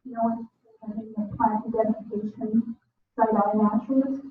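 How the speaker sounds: muffled, as if through a hand; speech dulled and indistinct, far from mic. Real, not acted. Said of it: "it's quite muffled to the microphone".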